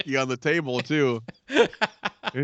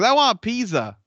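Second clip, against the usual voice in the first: mock character voice; 8 semitones higher than usual. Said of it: "he goes".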